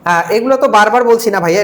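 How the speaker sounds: ordinary talk, nothing marked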